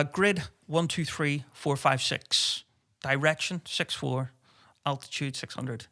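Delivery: slow, formal radio readback; official radio call. Retold or imitated. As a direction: read the grid like a by-the-book radio operator. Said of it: "reading it out all official".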